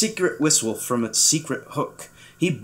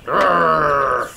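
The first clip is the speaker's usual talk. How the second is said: louder grumpy growl; rumbling angry grr; 4 dB louder than usual. A narrator's reading. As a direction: growl with royal annoyance. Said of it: "he growled at that".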